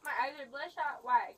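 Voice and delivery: loud bitter challenge, voice jumps up in volume on why; angry demand. Real, not acted. Woman in custody lashing out at the officer, loud and bitter. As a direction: snap the question out hard.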